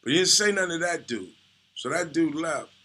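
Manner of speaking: usual speaking voice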